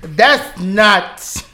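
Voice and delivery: mimicking an assistant with sass; spicy imitation. Player copying Siri who keeps them spicy, sassy imitation. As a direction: say it with mock attitude. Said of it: "She's spicy".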